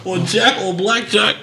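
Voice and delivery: high, laughing meek voice backing off; lightly voiced scared teammate; mock timid teammate.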